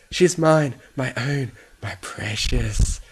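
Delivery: high and loud, slowing to a drawn-out hiss; possessive hiss. A narrator's reading. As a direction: claim it possessively, stretching the last word. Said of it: "Fluttershy hissed".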